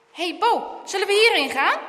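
put-on keen boy calling out; eager suggestion. A narrator's reading. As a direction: propose an adventure eagerly. Boy calls friend to side path.

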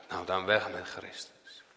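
low, soft, shrugging rejection; dismissive crowd. Acted. Preacher voicing the crowd quietly brushing Jesus aside, dismissive.

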